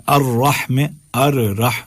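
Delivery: "ار رح" split as ar, rah; doubled raa. Shown as a demonstration. Teacher giving an example, split doubled r. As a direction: sound both heavy r's in "الرحم". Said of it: "دونوں را ہیں".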